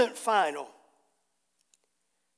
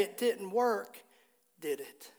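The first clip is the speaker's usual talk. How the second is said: compassionate; 3 semitones lower than usual. Retold or imitated. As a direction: ask it with understated compassion. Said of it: "I think he said it with compassion".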